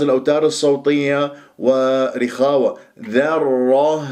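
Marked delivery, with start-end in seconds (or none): 3.1-4.1 ذرة with light dha, heavy rr, whispered final h; model zarra. Shown as a demonstration. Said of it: "هكذا بهذه الطريقة". (ذرة بهاء مهموسة)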